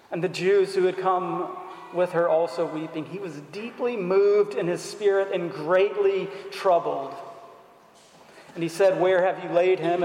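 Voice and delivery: measured reading of the gospel text; scripture reading. Acted. Preacher reads the gospel to his congregation, measured reading. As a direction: read the passage aloud to the congregation.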